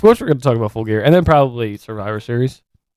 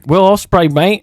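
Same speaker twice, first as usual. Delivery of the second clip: put-on British lad accent, bruv; mock British geezer voice; 7 semitones higher, 4 dB louder, slower than usual. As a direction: play a cocky British wrestler. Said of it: "trying to sound, like, British".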